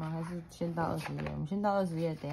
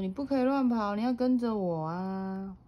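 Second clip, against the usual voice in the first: scolding dad; 5 semitones higher, 5 dB louder than usual. Acted. Dad scolding child in story.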